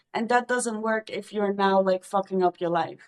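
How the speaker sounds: plain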